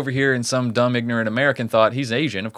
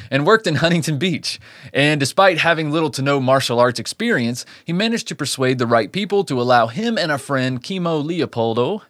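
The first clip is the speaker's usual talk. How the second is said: measured storyteller read; true-crime narration; 3 semitones higher than usual. A narrator's reading. Host tells listeners of a Christmas Eve attack, measured narration. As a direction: narrate the case from a script.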